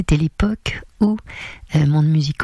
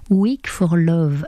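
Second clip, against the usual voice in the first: slow, careful English-accented "Weak for Love"; le titre dit lentement, avec l'accent anglais; much slower than usual. Real, not acted. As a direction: give "Weak for Love" a French speaker's English accent, slowly. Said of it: "attention à mon accent anglais".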